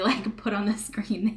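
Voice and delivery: normal talking voice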